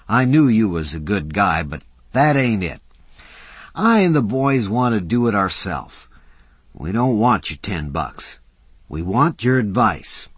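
lightly voiced tough guy; rough working man. Mac voiced by narrator.

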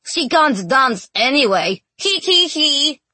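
put-on high, teasing boyish voice; tease, ending in a sing-out giggle; mischievous little-boy jeer; giggling boys. A narrator's reading. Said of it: "the boys said, tickling each other".

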